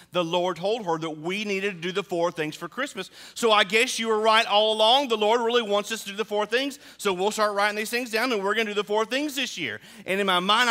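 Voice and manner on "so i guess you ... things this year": higher, louder, giddy wife; lightly voiced wife bubbling with the news; excited wife. Wife telling husband the Lord spoke, higher and louder. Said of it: "She said".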